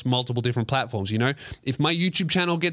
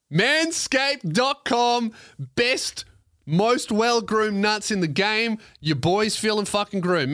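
upbeat, slowed sponsor pitch with a lifted voice; ad read; 5 semitones higher, slower than usual. Acted. Host reading a Manscaped ad to listeners, upbeat ad read. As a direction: sell the razor code like a host ad spot.

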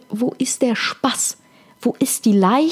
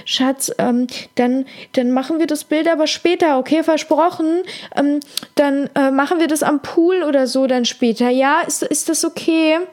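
calling after him; 4 semitones higher than usual. Retold or imitated. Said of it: "rief ihm noch hinterher".

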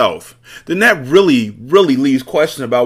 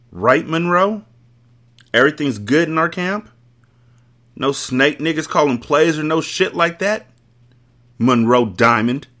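higher, pointed accusing questions; accusatory; 7 semitones higher than usual. Acted. Husband accuses his brother-in-law of betrayal, accusatory. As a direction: lean on every word like a charge. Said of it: "His voice was accusatory".

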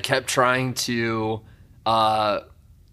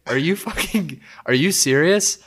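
higher, mock disbelief; retelling her stunned reaction; incredulous girlfriend; 6 semitones higher than usual.

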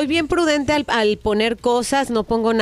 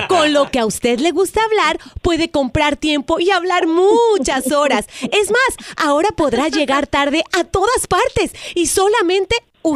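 telemarketer voice; 3 semitones higher than usual. Acted. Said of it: "es una broma telefónica".

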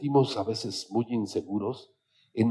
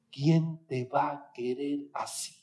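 quiet echo; 7 dB quieter, slower than usual. Shown as a demonstration. Speaker repeats the mother's words.

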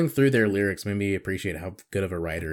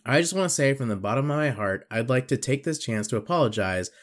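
a lightly voiced cocky fighter; Conor McGregor. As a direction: swagger through a fake apology. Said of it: "Conor McGregor".

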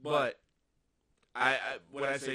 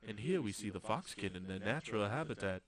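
nature documentary; 3 semitones lower than usual. Pretend. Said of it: "I wanna be the David Attenborough of".

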